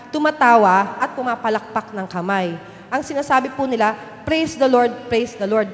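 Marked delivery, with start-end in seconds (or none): 4.2-5.7 louder, jubilant praise; joyful cheer. Retold or imitated. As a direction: echo the doctors' happy cheering. Doctors cheering after revival.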